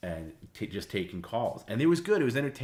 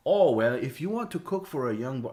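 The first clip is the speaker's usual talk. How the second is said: imitating the chef; 7 semitones higher, 7 dB louder than usual. Chef Juan answering, imitated.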